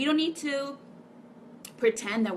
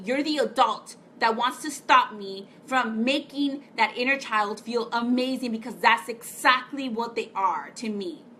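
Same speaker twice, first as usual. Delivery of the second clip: passionate rant; 5 dB louder than usual. Real, not acted. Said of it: "I feel like crying right now because I really feel so passionate".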